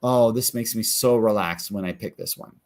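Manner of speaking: settled, easy inner voice; relaxed stillness. Acted. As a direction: voice a calm gut answer, at ease. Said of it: "or stillness".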